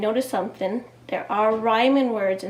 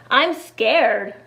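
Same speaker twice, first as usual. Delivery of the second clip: a lightly voiced frightened Eddie, a bit louder; scared little boy; 4 dB louder than usual. Teacher reading to kids, lightly voicing scared Eddie. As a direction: read it as a worried child.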